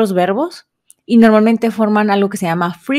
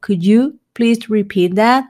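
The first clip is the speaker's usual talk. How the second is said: slow model question; 2 semitones higher, slower than usual. Shown as a demonstration. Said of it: "decir esta frase".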